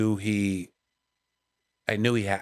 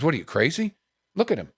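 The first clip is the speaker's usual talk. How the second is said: higher-pitched mock indignation; retold anger; 4 semitones higher than usual. Comic arguing with a drunk fan, mock-angry. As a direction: imitate a friend getting really mad. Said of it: "He got really mad".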